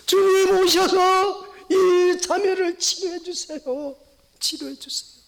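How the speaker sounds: preacher voicing intercession; pleading prayer. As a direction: plead for her healing. Healing prayer voiced.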